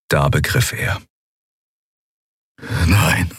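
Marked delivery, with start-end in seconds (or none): 2.9-3.3 gasped. A narrator's reading. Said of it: "keuchte Telios".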